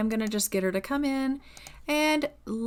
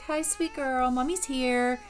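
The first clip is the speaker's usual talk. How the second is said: put-on higher, gentle cooing to a baby; tender mommy voice; 3 semitones higher, slower than usual. Mother comforts her crying baby girl, tender coo. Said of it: "She's like".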